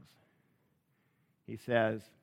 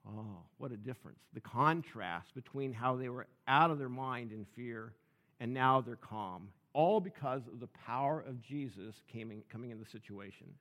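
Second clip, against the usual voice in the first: hushed wonder; 3 semitones lower, 5 dB quieter than usual. Pretend. Imagining calm after storm.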